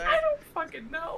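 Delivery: exasperated Irish leprechaun lilt; leprechaun accent. Acted. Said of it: "why do you sound like a leprechaun today".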